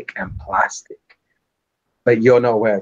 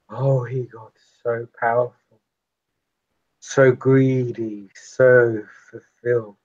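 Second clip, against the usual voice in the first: haunted vampire reflection. Acted. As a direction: relive old horror, lingering.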